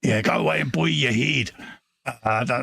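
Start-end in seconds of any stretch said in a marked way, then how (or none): 0.2-1.5 mock Scottish telling-off; poor Scottish accent. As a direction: put on a rough-and-ready Scottish accent. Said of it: "that poor Scottish accent there".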